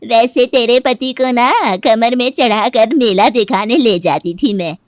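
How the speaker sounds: lightly voiced elderly neighbour, loud and emphatic; scolding old auntie. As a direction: play a chatty old auntie, projecting firmly. (बुज़ुर्ग चाची की ऊँची, ज़ोरदार आवाज़)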